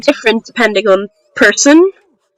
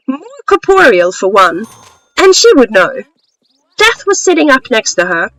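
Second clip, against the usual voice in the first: story narration. Acted. Author reading a short story to listeners, story narration. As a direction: read it as a measured storyteller.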